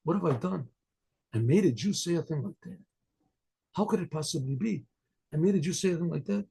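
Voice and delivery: hushed, mildly grieved self-reproach; stricken lament. Retold or imitated. Rabbi blaming himself for a Jew's words, stricken. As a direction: softly act out dismay at yourself. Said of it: "and he started to cry".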